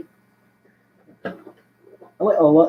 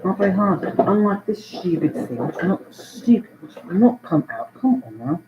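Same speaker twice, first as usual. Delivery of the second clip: grumbling in an English accent; put-on English accent; 3 semitones higher than usual. Shown as a demonstration. Complaining at a stupid thing that won't come out, English accent. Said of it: "Okay, an English accent".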